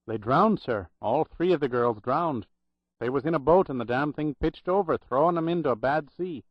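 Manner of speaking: lightly voiced Irish brogue remembering; a hint of old Irish brogue, grave. Old Irish clerk recalling the drowned nurses, light Irish brogue. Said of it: "in a loud Irish brogue".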